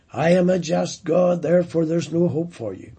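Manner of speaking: a lightly voiced stern God, quickening at the end; voicing God. Preacher voicing God to sinners, stern and firm. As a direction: speak as God pronouncing judgement, firm and measured. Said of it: "God could have said that".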